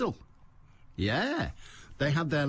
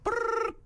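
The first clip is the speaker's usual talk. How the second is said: imitated thunderer whistle trill. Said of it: "they didn't go that sort of".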